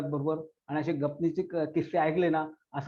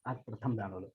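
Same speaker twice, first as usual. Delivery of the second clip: poem recitation. Acted. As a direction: recite as a grieving child's farewell. Recites poem about lost mother.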